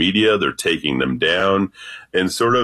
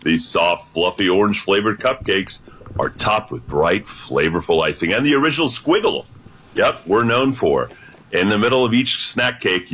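unofficial radio ad read; mock promo read. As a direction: pitch the cupcakes like a commercial announcer. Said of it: "Can I do a quick, uh, sort of like, uh, promo".

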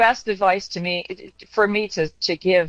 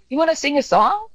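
cheerful distraction; 7 semitones higher than usual. Retold or imitated. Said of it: "I'm like".

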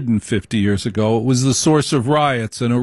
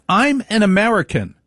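higher, proud immigrant grandmother; the grandmother declaring herself American; grandmother's voice; 9 semitones higher than usual. Retold or imitated. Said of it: "She refused".

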